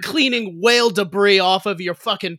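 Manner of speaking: put-on angry worker in a Massachusetts accent. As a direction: rant like a Boston working man. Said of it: "slipped into a Massachusetts accent".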